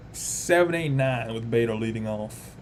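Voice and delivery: slow, drawled southern accent. Real, not acted. Streamer announcing who leads off, slipping into a southern accent. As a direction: slip into a southern drawl, slowly. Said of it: "went into a southern accent".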